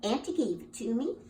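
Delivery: high, loud exasperated mother; a fed-up mama scolding her foolish son, loud and high. Acted. Mama scolding her son for carrying cake wrong, exasperated and high.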